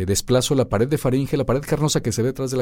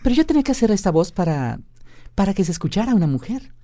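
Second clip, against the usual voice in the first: female voice held; man doing a woman's voice; 8 semitones higher than usual. Shown as a demonstration. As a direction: speak as a woman.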